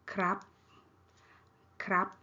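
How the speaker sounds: KRAP short, on a high tone. Shown as a demonstration. Teacher repeating male speakers' polite particle, high tone. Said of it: "high tone".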